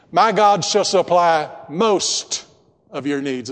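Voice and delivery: misquoting with a testing tone; deliberately wrong quote. Shown as a demonstration. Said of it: "Is that what your Bible says?".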